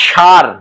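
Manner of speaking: সার called out with a retroflex sh; dialect sar. Shown as a demonstration. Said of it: "চাঁপাইনবাবগঞ্জের মানুষ সারকে কি বলে?".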